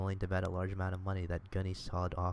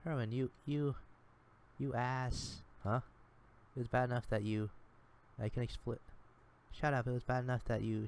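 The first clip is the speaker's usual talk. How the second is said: a higher, sharper voice for an upset Sherman; 5 semitones higher than usual. Acted. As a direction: she confronts him, hurt and cutting. Sherman bursts in, accusing.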